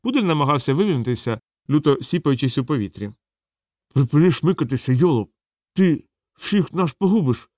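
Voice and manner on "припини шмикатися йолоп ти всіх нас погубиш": growled through teeth. A narrator's reading. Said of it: "гарчав Гаспод".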